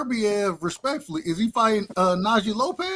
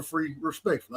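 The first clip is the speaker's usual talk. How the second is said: soft, lowered respectful aside; 5 semitones lower, 9 dB quieter than usual. Real, not acted. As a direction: back off softly to show respect. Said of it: "I said it respectfully".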